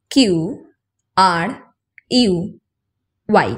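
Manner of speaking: কিউ, আর, ইউ, ওয়াই in French style; short French letter sounds. Shown as a demonstration. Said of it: "এইগুলো উচ্চারণে একটু different".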